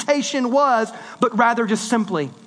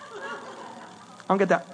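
under the breath, slower, confused; baffled mutter; 3 semitones lower, 8 dB quieter, much slower than usual. Real, not acted. Preacher baffled by duck face selfies, quiet slow mutter.

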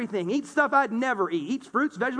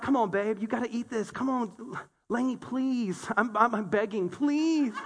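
pleading dad; 3 dB quieter than usual. Retold or imitated. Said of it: "so I'm like".

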